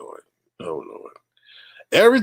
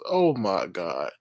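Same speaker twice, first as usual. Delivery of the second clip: slow, breathless whisper of disbelief; shocked whisper; 5 semitones lower, 6 dB quieter, slower than usual. Real, not acted. Streamer reacts to the robber being caught, in a shocked whisper. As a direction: hush it like you can't believe it. Hushed shock after the punchline.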